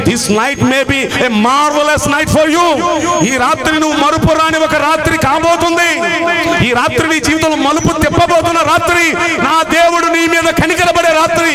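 rising, slow, fervent proclamation; preaching at full force. Acted. Preacher promising the congregation a turning-point night, fervent.

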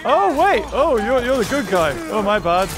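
fluster over who is who; confused flustered questions. Real, not acted. Confused about friend or foe.

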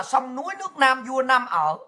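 put-on slow, solemn recitation of the old poem; reciting the patriotic verse Obama quoted, slow and formal. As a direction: declaim it like a call to arms, unhurried. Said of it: "Bởi ông mới dùng cái câu là".

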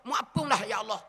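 a lightly voiced son pleading with God over his mother's body; grieving son's prayer. Preacher voices son praying at mother's funeral, lightly grieving plea.

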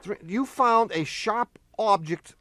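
normal talking voice

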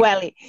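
"Welly" with an open e, WEH-lee; correct pronunciation. Shown as a demonstration. Guide echoing her friend's correction, correct "Welly". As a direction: repeat "Welly" with e as in "wet". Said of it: "creo que es, eh".

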